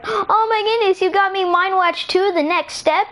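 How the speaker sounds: high, gushing gift reaction; thrilled delight. Acted. Boy opening his game present, thrilled delight.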